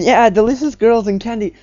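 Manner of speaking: high, loud imitated creepy yell; loud, high mock madman cry; loud mock leer. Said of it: "like, going".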